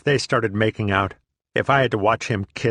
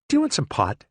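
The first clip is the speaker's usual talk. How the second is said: higher, lightly sweet female voice; sweet offer; 6 semitones higher, faster than usual. Retold or imitated. Comedian offers him pot, lightly voiced sweet high tone. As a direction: offer it nicely. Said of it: "she asked".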